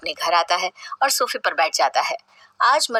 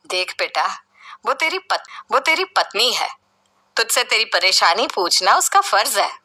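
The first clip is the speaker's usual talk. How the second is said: lovingly. Acted. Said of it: "वो उससे प्यार से कहती है".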